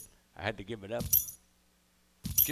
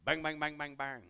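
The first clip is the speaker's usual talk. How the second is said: mock gunfire; 2 semitones higher than usual. Shown as a demonstration. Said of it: "Signal for gunfire".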